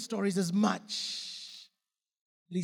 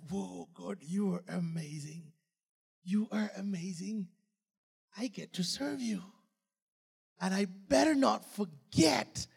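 hushed prayer. Retold or imitated. His private prayer to God.

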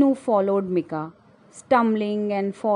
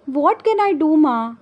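wailing; 6 semitones higher, 4 dB louder than usual. Acted. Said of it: "wailed Vinu".

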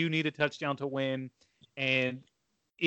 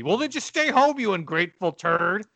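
retold mom's yell; 4 semitones higher than usual. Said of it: "yelled at me and told me".

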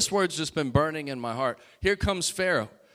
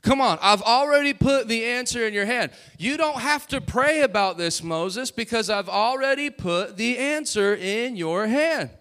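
high, louder insistent preaching; God urging; 5 semitones higher, 3 dB louder than usual. Retold or imitated. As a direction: push Moses to act. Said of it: "what God was saying was".

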